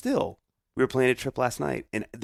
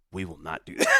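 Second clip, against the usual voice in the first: quoting his wife, laughing through the words; laughing quote; 5 semitones lower, 4 dB quieter than usual. Retold or imitated. Retelling his wife's promise to him, laughing.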